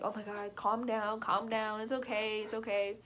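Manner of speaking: retold reassurance, gently dismissive; amused soothing parents. Parents half-laughing at scared kid, soothing. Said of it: "laughing and were like".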